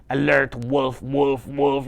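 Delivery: even-pitched mechanical alarm; robotic wolf alert on one note. Acted. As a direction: intone each word like a robot. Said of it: "in a robot voice like this".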